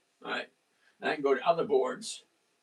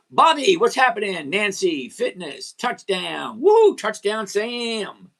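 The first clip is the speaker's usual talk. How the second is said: excited shout-outs; 4 semitones higher, 7 dB louder, slower than usual. Real, not acted. Greeting chat viewers, cheering touchdown.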